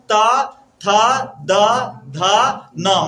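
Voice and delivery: त, थ, द, ध, न each said separately with pauses; slow isolated demo of त थ द ध न; sounding out letters. Shown as a demonstration. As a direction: model त थ द ध न for the class. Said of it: "त, थ का वर्ग का उच्चारण करते हैं".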